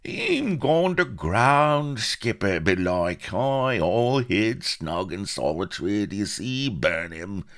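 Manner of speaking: put-on high, loud rough-accented pirate shouts; buccaneer's raucous, drawn-out cry; pirates calling out. A narrator's reading. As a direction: holler into the bushes for a hidden quarry. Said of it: "and cried".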